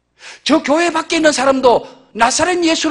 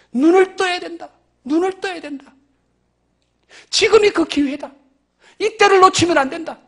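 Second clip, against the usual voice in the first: desperate inner urge; 5 semitones higher than usual. Acted. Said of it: "절박함이 있었습니다".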